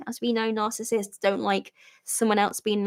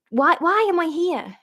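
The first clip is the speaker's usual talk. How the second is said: polite question; 7 semitones higher than usual. Retold or imitated. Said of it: "in a really polite way".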